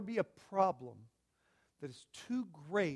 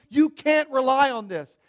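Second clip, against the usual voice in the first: mock scream of the flesh; 7 semitones higher, 16 dB louder than usual. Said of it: "your own flesh every day screaming at you".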